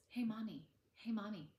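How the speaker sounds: put-on high, loud kids calling Hey, mommy over and over; whiny kids calling mommy. Kids interrupting mom at dinner, whiny calling out. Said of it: "I call them the "Hey, mommies".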